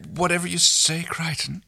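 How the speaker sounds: high, eager-to-please agreement; lightly voiced earnest compliance. A narrator's reading. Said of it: "she agreed earnestly".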